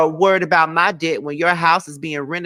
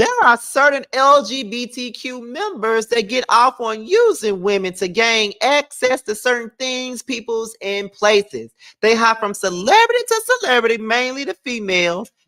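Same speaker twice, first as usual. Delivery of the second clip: higher-pitched, put-on woman's voice; 6 semitones higher than usual. Reading a written text aloud the way she would, imitating her voice. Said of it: "I'm gonna try to read it like her because I read everything in her voice".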